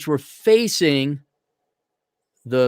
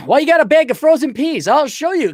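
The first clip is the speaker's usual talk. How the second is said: put-on higher, louder Russian accent; 11 semitones higher, 5 dB louder than usual. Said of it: "and she had an accent".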